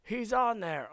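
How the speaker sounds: loud, high exclamation; mock amazed outburst; imagined viewer's astonishment. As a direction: blurt it out like a startled fan. Imagined viewers realizing he's live.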